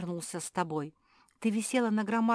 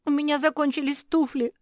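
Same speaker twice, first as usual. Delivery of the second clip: crying; 9 semitones higher, 7 dB louder than usual. A narrator's reading. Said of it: "заплакала Жози".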